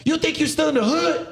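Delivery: high-pitched mock dressing-down; put-on scolding voice, talk down to him; belittling Chiefs. Chiefs chewing out a young sailor, high belittling scold. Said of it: "go the fuck off on you and belittle you".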